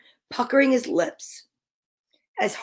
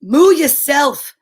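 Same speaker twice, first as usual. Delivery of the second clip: slow lowing cow; low deep cow voice; 2 semitones higher, 6 dB louder, slower than usual. Acted. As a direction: drawl it like a lazy cow. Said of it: "said a low, deep voice".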